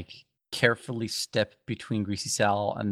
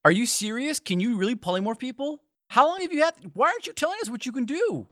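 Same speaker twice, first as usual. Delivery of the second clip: annoyed shout; 13 semitones higher than usual. Acted. Guige yelling at Sariel about her spells, annoyed shout. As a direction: yell at her, fed up she hid this. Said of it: "Guige annoyedly shouts".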